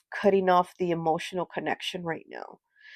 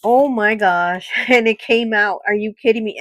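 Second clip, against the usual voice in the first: loud, raised burst of real astonishment; amazed; 3 semitones higher, 8 dB louder than usual. Real, not acted. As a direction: laugh in disbelief, voice jumping up and louder. Card she cut reappears.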